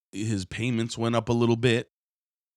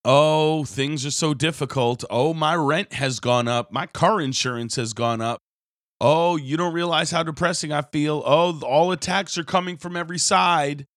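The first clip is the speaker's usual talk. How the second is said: whiny complainer; 6 semitones higher, 4 dB louder than usual. Retold or imitated. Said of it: "paper boys or paper girls for the devil".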